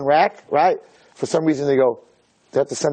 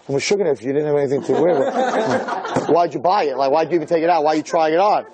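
laughing through the retort; laughing mock retort. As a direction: laugh as you scold. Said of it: "you can't say, like".

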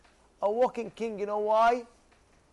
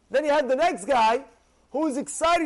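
ordinary delivery

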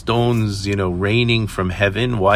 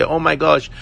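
higher-pitched imitation of delighted children; happy, excited kids; 5 semitones higher than usual. Happy kids tell Mom about meat every night, excited. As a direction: gush like children telling Mom their dream. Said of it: "the kids are so happy and say".

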